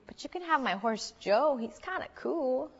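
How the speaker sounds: a hint of little-girl voice; little girl offering. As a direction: offer it up like a child making a deal. Daughter offers her toy horse instead.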